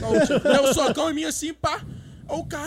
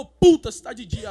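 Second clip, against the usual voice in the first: blurted outburst; 9 dB louder, slower than usual. Retold or imitated. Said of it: "porque eu".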